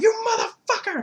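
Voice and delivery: high, loud mock outburst; hammed-up furious shriek, half laughing; flipping out. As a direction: explode like a hot-headed movie mobster. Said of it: "he starts flipping out".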